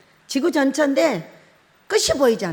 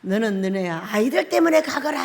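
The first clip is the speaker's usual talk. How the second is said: Jesus; 3 semitones lower than usual. Retold or imitated. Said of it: "뭐라고 하냐".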